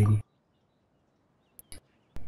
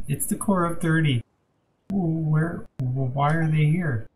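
higher and slow, alarmed at the news; panicked fright; 4 semitones higher, slower than usual. Acted. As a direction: panic rising at the name. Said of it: "calm yourself".

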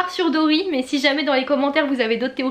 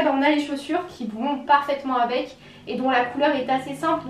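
ordinary delivery

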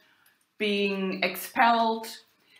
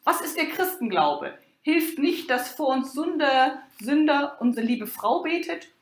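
a touch of an angry landgrave, higher; mild mock anger; 6 semitones higher than usual. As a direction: read the outburst with slight indignation. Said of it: "war zumal zornig und sprach".

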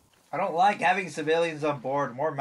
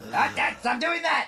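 scared horror game streamer; 9 semitones higher than usual. Real, not acted.

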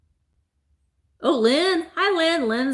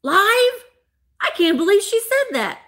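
higher, louder, scandalized gasp; shocked viewers; 10 semitones higher, 4 dB louder than usual. Retold or imitated. Shocked German viewers react to her saying naughty words live, scandalized. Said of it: "German viewers that are like".

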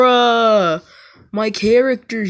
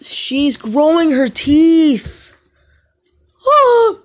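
higher and slow, stretched out on teeth; excited reveal; 6 semitones higher, 5 dB louder, much slower than usual. Real, not acted. Telling viewers about her baby sister's teeth, higher and slow. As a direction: draw it out like big news.

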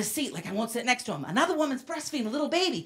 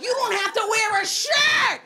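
slow mocking comeback; 5 semitones higher, slower than usual. To her flat-chested friend, slow mocking comeback. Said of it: "I'm like".

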